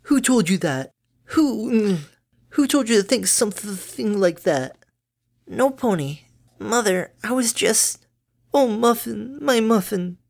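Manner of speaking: high, bright-natured mother pony; doting mom, high and chirpy; cheery mother voice. Acted. Mother alarmed, then tender.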